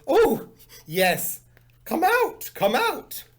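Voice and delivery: high, loud call from the backyard. Acted. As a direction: call her outside, sing it out. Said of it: "She heard the voice say".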